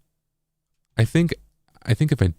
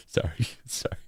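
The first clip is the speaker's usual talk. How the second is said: whisper; 5 semitones higher, 10 dB quieter than usual. Real, not acted. Embarrassed laughing apology.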